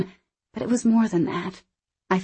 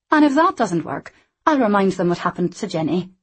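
put-on lively young Scottish woman; 4 dB louder than usual. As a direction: play her cheeky and quick. Anna voiced.

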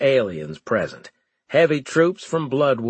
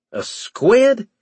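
high, loud shocked shout; 12 semitones higher, 6 dB louder than usual. A narrator's reading. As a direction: blurt it out in shock. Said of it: "I shouted aloud".

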